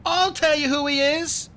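put-on very high, loud boy's voice; high-pitched, loud insistence; angry outburst. A narrator's reading. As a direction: burst out to expose him. Boy angrily exposing the villain.

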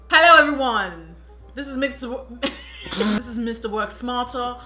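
put-on lightly done London accent; Tottenham accent. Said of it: "I'm from Tottenham".

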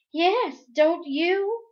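high, loud challenge; demanding. Acted. Meg demanding an answer from her brother, high and sharp. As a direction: demand it, glaring. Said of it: "Meg demanded".

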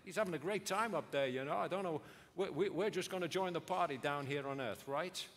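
lightly voiced carefree shrug; half-hearted mock party talk; mock breezy. Preacher parodying glib mourners, lightly mock breezy. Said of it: "They didn't say".

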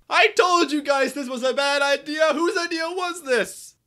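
high, wailing accusation; hysterical blame. Acted. Engine blaming the others mid-crash, hysterical wail. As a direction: cry out the blame in comic hysteria.

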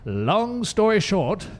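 slow, drawn-out mock reader's delivery; question reading voice. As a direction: jokingly put on a reading voice, stretching the words. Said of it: "Let me get my question reading voice".

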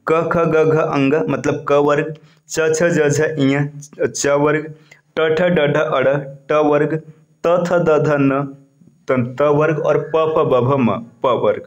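slow, deliberate chant of क ख ग घ through प फ ब भ म; slow recitation of letters. Shown as a demonstration. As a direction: spell out each consonant group slowly for students. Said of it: "क से लेकर के म तक". (धीरे-धीरे वर्णमाला गिनाना)

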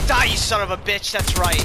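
loud heated yell at the enemy; angry yell. Real, not acted. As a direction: snarl it at him, loud. Trash talk during firefight.

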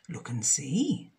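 hushed, secretive hint; mysterious dragon. Acted. The dragon tells Jenny to open the box, hushed. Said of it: "said the dragon".

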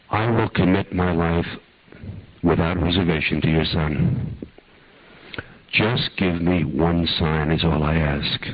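hushed, guiding the listener's imagination; guided meditation. Acted.

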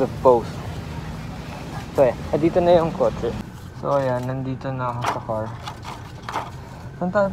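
muffled behind mask and shield; speaking through covered mouth; through a face mask. Real, not acted. Seen 4: Surgical mask and clear face shield worn throughout the labelled words.

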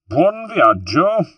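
high, drawn-out mocking farewell call; loud, slow jeering send-off; nasty shout. A narrator's reading. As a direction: shout it spitefully after a departing boat. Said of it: "he shouted nastily".

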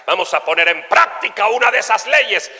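lightly voiced preacher; a hint of pulpit proclamation; preaching pastor. Pastor announcing the lesson to congregation, mild preaching.

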